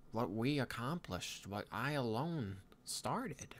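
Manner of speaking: put-on pensive young Viking leader, halting delivery; lightly voiced Hiccup. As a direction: muse aloud with long pauses, lightly in character. Plays Hiccup in improvised roleplay.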